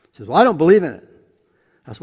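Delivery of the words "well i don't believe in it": skeptical retort. Retold or imitated. Girl's skeptical retort retold.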